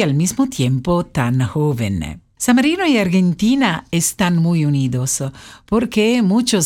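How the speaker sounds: Spanish with a light Italian accent; non-native Spanish, Italian lilt. Real, not acted. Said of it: "Perdón, mi español no lo hablo mucho". (español con acento italiano)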